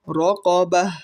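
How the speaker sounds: "রকবাহ" intoned firmly, closed on a breathed h; final sakin ha. Shown as a demonstration. Teacher showing the pause form, "রকবাহ" ending in h. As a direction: finish "রকবাহ" with an audible h. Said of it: "গোলতা হা সাকিন হয়ে যাবে".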